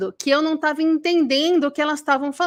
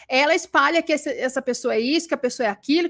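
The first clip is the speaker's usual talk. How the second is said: normal talking voice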